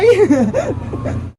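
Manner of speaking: a short trailing giggle. Acted. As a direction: giggle after the goodbye. Laugh after saying bye-bye.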